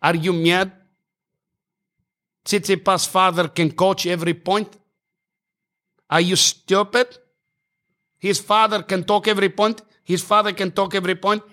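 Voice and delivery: put-on high, accented outraged rant at the umpire; ranting tennis player. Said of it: "he sound like he's".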